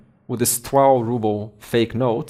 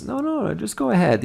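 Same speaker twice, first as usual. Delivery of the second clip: acted coaxing, pitched up; coaxing friend; 8 semitones higher than usual. Friend talks the boy into it, coaxing. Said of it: "his friend convinces him".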